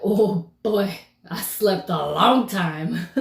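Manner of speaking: slow laugh through the words. Retold or imitated. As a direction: chuckle out the words. Laughing at oversleeping.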